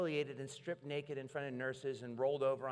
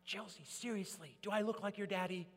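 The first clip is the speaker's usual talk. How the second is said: higher, animated mock exasperation; exasperated teasing; 9 semitones higher, 5 dB louder than usual. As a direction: plead with her, half laughing. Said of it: "And I'm like".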